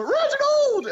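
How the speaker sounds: play-acted, very high, sudden screamed call. Retelling how someone sometimes screams a name: imitating someone screaming. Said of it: "sometimes he'll just scream".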